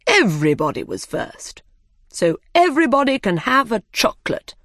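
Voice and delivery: lightly voiced dodo giving a verdict, rising into excitement; dodo character voice. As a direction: announce the result to everyone, lifting at the end. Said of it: "Then he said".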